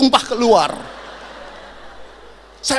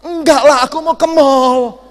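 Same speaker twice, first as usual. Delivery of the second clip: higher, much louder exasperated yell; shouting wife; 6 semitones higher, 11 dB louder than usual. Retold or imitated. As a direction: bellow it so he finally hears. Wife yells at deaf husband.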